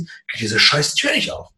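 mock aggressive snap, slightly rougher. Husband to wife about locked door, mock aggressive. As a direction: replay it with real aggression. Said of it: "Aber so richtig aggressiv".

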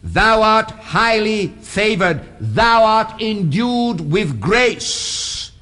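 each word set apart slowly; slow, careful reading. Shown as a demonstration. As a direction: read it slowly so they catch every word. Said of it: "listen carefully".

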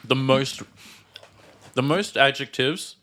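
talking with mouth full. Real, not acted. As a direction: speak through a mouthful of pizza. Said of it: "I'm speaking with a full mouth".

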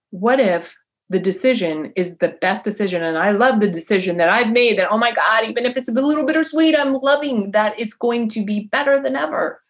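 real excitement lifting the voice as it builds; inspired, lit up. Real, not acted. Mom embracing her daughter's future, inspired and lit up. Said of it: "hear the inflection change in my voice".

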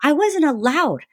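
defensive mom. Retold or imitated. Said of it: "she would get really defensive and she'd say".

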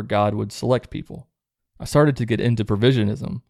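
measured read-aloud of a personal testimony. Acted. Host reads out a listener's deconversion story, reading aloud. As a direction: read a written story out, evenly paced.

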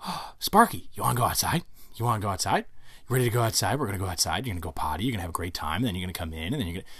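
put-on gushing, sing-song baby talk to the dog; imitating excited owner. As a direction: hype the dog up like a giddy owner. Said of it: "jump out of bed and go".

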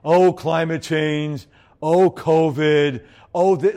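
mild mopey Eeyore moan; a hint of gloomy Eeyore, slow and sighing; lightly voiced Eeyore grumbling. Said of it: "Eeyores are like".

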